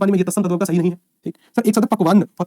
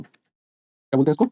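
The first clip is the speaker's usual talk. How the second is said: slow drawn-out prompt; 3 semitones lower, much slower than usual. Shown as a demonstration. Teacher drawing out class answer.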